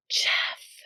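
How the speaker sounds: a soft unvoiced Jeff; whispered name. The mystery voice whispering the husband's name, unvoiced. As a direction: breathe the name like a ghost. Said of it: "the whisper".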